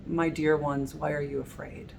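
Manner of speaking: soft, gentle reassurance; loving voice. Retold or imitated. Preacher imagining Jesus comforting his fearful followers, soft loving voice. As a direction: speak like a tender shepherd. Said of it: "the loving voice of Jesus".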